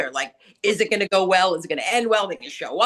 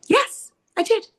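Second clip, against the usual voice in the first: smug client; 13 semitones higher, 4 dB louder than usual. Retold or imitated. Client admits recording the call.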